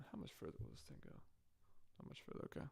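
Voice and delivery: quiet, distant from microphone; far from the mic. Real, not acted. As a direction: speak from across the room. Testing how far the mic picks up.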